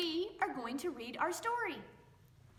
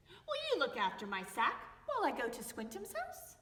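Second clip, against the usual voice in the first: lively read-aloud with voices for each animal and person; story reading for children. A narrator's reading. Teacher reading a picture book to young children, lively storytelling. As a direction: read it to little ones, bright and playful.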